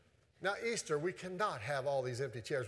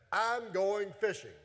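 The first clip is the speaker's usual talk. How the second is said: drawn-out, slightly raised delivery; deliberate scripture quote, stretched out; slow declaration; 3 semitones higher, slower than usual. Acted. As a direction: announce it slowly, word by word. Peter's line announced, then repeated casually.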